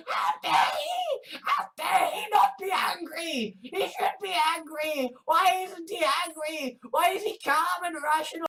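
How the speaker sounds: hammed-up high indignant wail; mock outrage. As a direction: sneer like an offended zealot. Mocking outrage at Corbyn.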